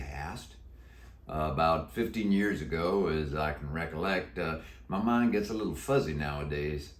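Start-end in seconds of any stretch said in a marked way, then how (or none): 1.3-6.9 put-on a croaky old Western cowboy; deep croaky voice. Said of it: "He answered in a deep, croaky voice".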